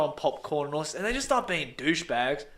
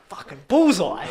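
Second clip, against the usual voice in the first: gleeful cheer; 5 dB louder than usual. Retold or imitated. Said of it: "And I was like".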